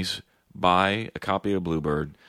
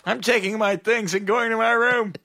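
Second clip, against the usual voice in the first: passive-aggressive mock; 4 dB louder than usual. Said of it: "that's not passive-aggressive at all".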